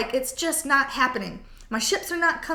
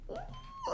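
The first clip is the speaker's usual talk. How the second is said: delighted ooh; 15 dB quieter than usual. Real, not acted. Delight at attraction card.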